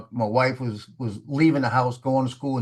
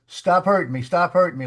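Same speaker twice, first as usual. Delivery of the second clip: higher-pitched imitation of screaming; mild mock scream; 4 semitones higher than usual. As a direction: imitate her cries, raised in pitch without really screaming. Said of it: "Like, sort of screaming".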